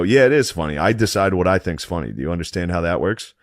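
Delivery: retold mad retort. Passenger telling the airline lady off, retold mad retort. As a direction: argue back as in a heated retelling. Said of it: "I was so mad".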